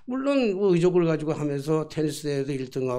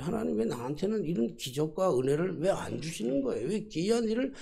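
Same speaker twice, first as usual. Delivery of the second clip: mildly aggrieved, lively rising complaint; protesting to God; 3 semitones higher than usual. Retold or imitated. Pastor arguing with God over withheld miracles, protesting. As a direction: press God with exasperated questions. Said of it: "하나님께 좀 따졌어요".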